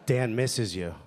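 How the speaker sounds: low, smooth late-night radio host; light FM dedication. Acted. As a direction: croon a radio love dedication. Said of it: "light F M letters".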